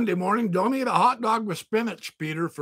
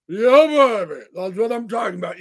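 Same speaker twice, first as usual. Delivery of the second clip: excited; 7 dB louder than usual. Real, not acted. Celebrating recovery loudly.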